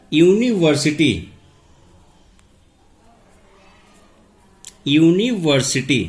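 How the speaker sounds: यूनिवर्सिटी said slowly, opening with a clear "yu" glide; slow careful pronunciation. Shown as a demonstration. Teacher to students, spelling out यूनिवर्सिटी's "yu" sound. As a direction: draw out यूनिवर्सिटी syllable by syllable, starting on "yu". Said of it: "उसको pronunciation करेंगे तो आवाज़ निकली मेरी यहाँ पे यू".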